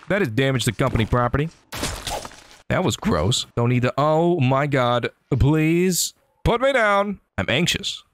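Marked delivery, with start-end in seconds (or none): 5.4-7.2 mock pleading. Being lifted by a mob.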